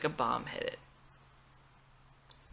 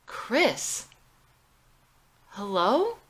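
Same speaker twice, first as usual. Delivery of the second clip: frantic calling; 5 semitones higher, 7 dB louder, much slower than usual. Acted. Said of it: "screams into the phone".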